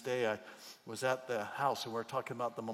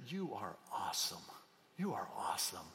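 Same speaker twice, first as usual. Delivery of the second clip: demo affirmation; 6 semitones lower, 7 dB quieter than usual. Shown as a demonstration. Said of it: "turn to one of the people".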